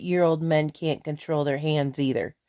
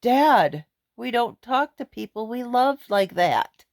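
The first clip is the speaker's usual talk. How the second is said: firm protest; 6 semitones higher than usual. Retold or imitated. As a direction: set dad straight, voice raised high. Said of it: "And I said".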